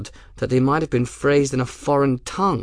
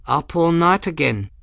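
higher, fondly teasing question; warm; 7 semitones higher than usual. A narrator's reading. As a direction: ask with warm familiarity. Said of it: "her voice warm".

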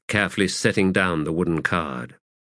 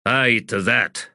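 growled; 3 semitones higher than usual. Acted. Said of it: "Callum growled".

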